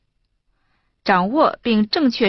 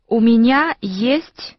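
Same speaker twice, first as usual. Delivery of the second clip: slow repeat; 3 semitones higher, slower than usual. Shown as a demonstration. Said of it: "请老师来读".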